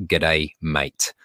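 a light Australian G'day, mate; Australian greeting. Shown as a demonstration. Teacher showing listeners the Aussie greeting, lightly Australian. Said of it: "I want everybody to repeat this one phrase".

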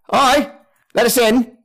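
high-pitched, hailing visitor voice; high character voice at the door; calling through a door. Acted. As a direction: call out to be let in, pitched well up.

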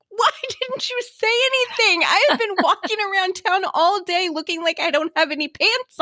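high-pitched mock outrage at a husband; exasperated outburst. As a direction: scold in comic indignation, pitch way up. Retold outburst at silent husband.

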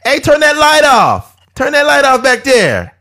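high, slow distant shout from a pocket; high calling out. Retold or imitated. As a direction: call out across the room. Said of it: "they'd be like".

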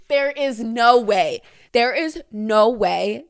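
slow, loud, stunned disbelief; emphatic disbelief. Real, not acted. Reader reacting to a listener's confession, emphatic disbelief. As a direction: spell out your disbelief, word by word.

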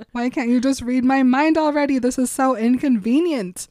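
hammed-up frustrated girlfriend; exasperated complaint. Acted quarrel, she complains.

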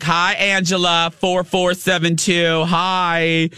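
high sing-song greetings to live viewers; screechy Marianne. Retold or imitated. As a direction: rattle off hellos in a piping fan voice. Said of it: "a really screechy voice".

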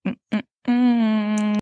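short hums, last one drawn out; slow, wordless hum of refusal; imitated disapproving hum. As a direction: mimic a cat refusing with closed-mouth hums. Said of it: "She's like".

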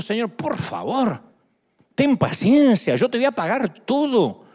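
slow pleading servant, drawn out; begging servant. Acted. Servant begs his king, slow pleading voice. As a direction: beg the king for time, slowly.

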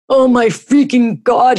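high, slow howl of pain; mock howl. A narrator's reading. Husband as beer hits the burn, mock howling. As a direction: stretch it into a storyteller's howl. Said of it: "he howled".

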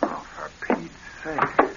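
under-the-breath grumble, slow; slow, breathy muttered annoyance; exasperated mutter. Acted. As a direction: grumble it half to yourself. Annoyed aside at the interruption.

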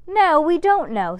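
hot, loud protest; heated. A narrator's reading. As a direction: snap back heatedly. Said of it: "said Max Ernest hotly".

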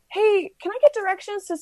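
imitated high, innocent asking voice; polite stranger. Lady asks athlete for directions, imitated high polite voice. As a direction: pitch it up like someone needing help.

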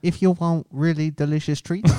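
put-on Asian accent, even pace; in character with a thick Asian accent. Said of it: "Once you do an Asian accent".

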